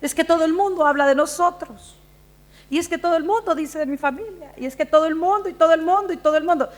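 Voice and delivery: a mild mock grievance, piling up the repetitions; self-pitying victim. Preacher mimicking pastors' wives as victims, lightly mock-aggrieved. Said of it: "sienten como que son las víctimas de todo el cuento".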